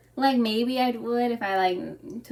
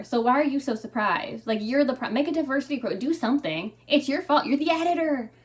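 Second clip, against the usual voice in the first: calling the editor out, getting louder and sharper; exasperated rant; 5 dB louder than usual. Retold or imitated. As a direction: let the blame build into a loud scolding. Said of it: "And I'm like".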